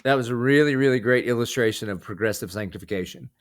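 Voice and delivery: mild sermon delivery in a conversational voice; lightly voiced preacher. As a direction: preach it gently, like a pastor encouraging a guest. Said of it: "Can I play preacher real quick?".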